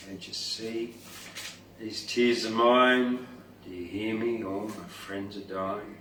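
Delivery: a hint of a crying turtle; sad turtle voice. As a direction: plead slowly, a touch of grief. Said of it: "the turtles are crying".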